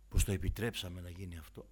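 ordinary talk, nothing marked

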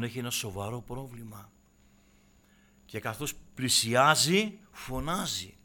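ordinary delivery

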